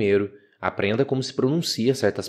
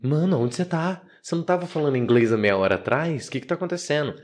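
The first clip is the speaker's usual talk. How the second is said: higher-pitched bewildered questioning; mock bewilderment, pitched up; confused brain talking; 4 semitones higher than usual. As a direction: voice your own baffled brain. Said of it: "meu cérebro fica".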